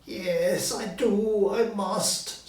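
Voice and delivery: high, loud frantic agreement; frightened Scrooge. Acted. Scrooge yielding to the ghost, high and scared. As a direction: give in fast, terrified.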